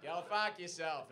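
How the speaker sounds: slow, drawn-out Aussie echo; broad, slow mock Australian. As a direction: parrot an Australian heckler, stretching the words. Parrots the Australian heckler slowly.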